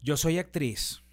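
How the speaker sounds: mock diva. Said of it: "Y tú así con el celular".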